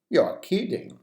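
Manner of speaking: incredulous. Shown as a demonstration. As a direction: ask it back in disbelief. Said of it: "You can also use".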